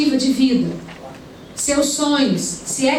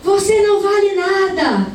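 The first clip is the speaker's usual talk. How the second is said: retold cursing yell; 7 semitones higher, slower than usual. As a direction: spit out the curse at the boy. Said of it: "ela ia começar a amaldiçoar o menino".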